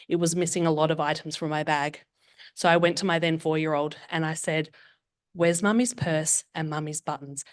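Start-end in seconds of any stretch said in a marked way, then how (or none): 5.3-7.5 slow, deliberately calm question. Retold or imitated. Mother asking her four-year-old about the missing purse, very calm. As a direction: keep it slow and even, holding back. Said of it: "very calm when I said it".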